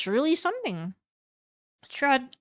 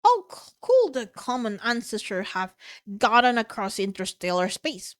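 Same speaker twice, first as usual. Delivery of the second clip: angry outburst. Acted. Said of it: "Logan slapped the table".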